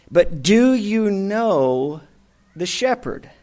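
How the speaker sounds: slow, searching and sincere; earnest question. Acted. Preacher asking the congregation about knowing the shepherd, sincere and slow. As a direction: ask it gently, slowly. Direct challenge to listeners.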